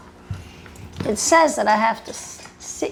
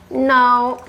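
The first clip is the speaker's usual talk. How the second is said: firm scolding; 5 dB louder than usual. Real, not acted. Scolding the dog again.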